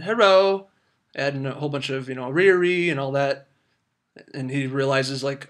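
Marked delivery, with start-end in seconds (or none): 0.0-0.7 imitating an Asian accent on the phone, raised and louder; mock Asian accent answering the phone. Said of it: "the Asian accent". 2.3-2.9 mock Asian accent. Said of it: "answering the phone in the Asian".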